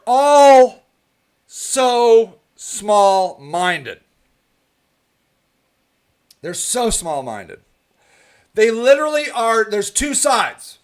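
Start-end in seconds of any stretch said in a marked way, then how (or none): 0.1-7.6 very slow, stretched so small-minded; drawn-out scorn. Real, not acted. Complaining about activist leaders, slow stretched scorn. Dragging out contempt.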